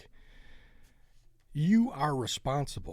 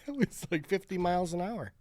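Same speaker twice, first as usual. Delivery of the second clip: excited disbelief; 6 semitones higher than usual. Real, not acted. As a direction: blurt it out, still rattled. After a near miss.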